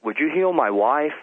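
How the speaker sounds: a casual, conversational request to God; casual offhand prayer. Retold or imitated. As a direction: ask God informally, as if chatting. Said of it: "I just said it just like this. I didn't really pray".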